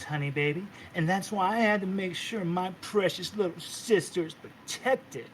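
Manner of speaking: lightly voiced sassy sister calling her honey; sassy big sister. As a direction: purr it like a doting diva sister.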